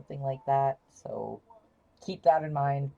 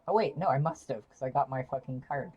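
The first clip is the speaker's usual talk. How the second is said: loud sudden excitement; excited realization; 3 dB louder than usual. Real, not acted. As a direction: burst out realizing. Realizes she has card.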